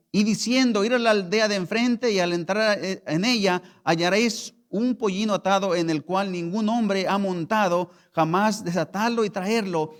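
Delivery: preaching the verse. Acted. Loud reading of Lucas.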